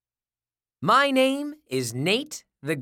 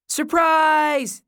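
high, loud drawn-out cheer; yelled surprise; 9 semitones higher, 6 dB louder than usual. A narrator's reading. Friends surprise the detective at his door, yelled. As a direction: yell it out as a surprise greeting. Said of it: "they yelled".

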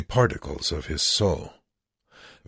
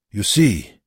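pointed remark; 4 semitones higher, 7 dB louder than usual. A narrator's reading. Wernicke calls to guard.

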